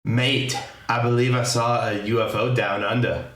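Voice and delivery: put-on Australian accent. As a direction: play an Aussie saying it, not quite landing it. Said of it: "I don't know how my accent sounds".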